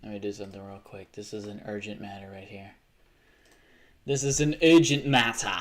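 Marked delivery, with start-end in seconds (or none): 4.0-5.6 loud attempt at a Geordie accent. Shown as a demonstration. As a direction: try out a Geordie accent with force. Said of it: "Am I doing a good Geordie accent".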